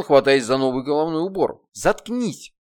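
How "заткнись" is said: angry scolding. Acted. Heroine berates demon.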